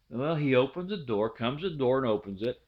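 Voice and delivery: ordinary talk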